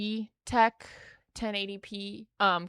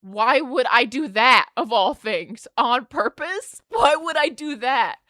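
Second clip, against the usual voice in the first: slow, louder insistence; insistent denial; 5 dB louder than usual. Retold or imitated. Patient insisting to her therapist, emphatic. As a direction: insist it was no accident. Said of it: "I was like".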